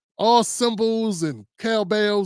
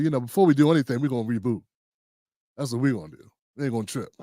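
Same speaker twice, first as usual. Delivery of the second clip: calm, lower-pitched self-reassurance; real calm; 5 semitones lower, faster than usual. Retold or imitated. Host talking himself through a reboot, real calm. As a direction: keep it low and unbothered. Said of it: "I was real calm about it".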